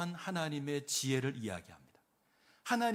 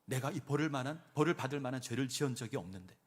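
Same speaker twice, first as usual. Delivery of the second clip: ordinary talk, nothing marked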